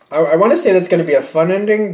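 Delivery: facetious. Real, not acted. Tarot reader hedging on how the reading ends, facetious. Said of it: "I say that in a facetious way".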